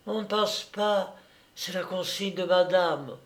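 high voice, stating the house orders; maid's voice. A narrator's reading. Maid refusing her master entry, high voice. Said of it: "La bonne, cette chère Louison".

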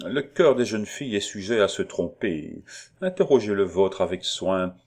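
measured tenderness with a hint of severity; understated fatherly pressure, carefully weighed; carefully calculated tone. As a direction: reassure her while lightly warning. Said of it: "d'un ton savamment calculé".

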